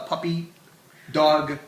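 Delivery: "puppy dog show" with long pauses between words; said slowly. Real, not acted. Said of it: "I don't know why I said that so slowly".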